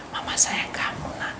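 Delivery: soft, whispered reassurance; mother whispering love to her child; tender whisper. Retold or imitated. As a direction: comfort the child gently.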